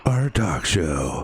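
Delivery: slow, drawn-out show announcer. Pretend. Host naming the live show, announcer voice. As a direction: announce it like a late-night title card. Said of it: "I just like saying stuff in my ... announcer voice".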